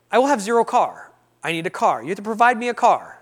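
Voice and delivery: high, loud opening, punchy demands; mock demanding. Man telling God to provide a car, mock demanding. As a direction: lay down terms in a hammed-up insistence.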